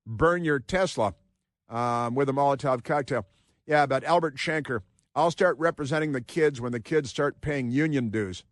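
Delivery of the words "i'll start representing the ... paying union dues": put-on a faint German accent on the quote; lightly German-accented mock quote; slight German accent. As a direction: tint it with just a hint of German. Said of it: "he said it with a slight German accent".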